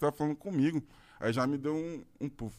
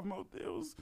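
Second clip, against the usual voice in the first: overwhelmed whisper; 7 semitones higher, 12 dB quieter than usual. Retold or imitated. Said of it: "chorando de emoção".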